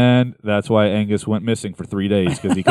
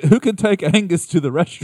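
higher, lightly put-on crew voice; mock crew voice; 7 semitones higher than usual. Crew asking who takes Angus to restroom, high mock voice. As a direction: ask around like a flustered roadie.

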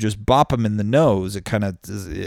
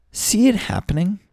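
excited high repeat; 12 semitones higher than usual. Real, not acted. Repeats the phrase to the audience.

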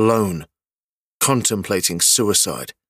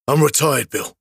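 scowling; 5 semitones higher than usual. Acted. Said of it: "Jack scowls".

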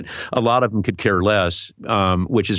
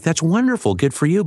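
mock congratulation; 8 semitones higher than usual. Mock congratulating boastful voice actors.

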